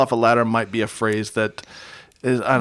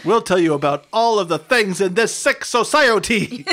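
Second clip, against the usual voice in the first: laughing mock dad; 7 semitones higher than usual.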